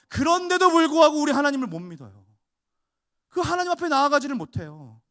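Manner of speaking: loud, high fervent preaching; preaching at full force. Acted. Pastor exhorts the congregation, loud fervent preaching. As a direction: thunder it at the congregation.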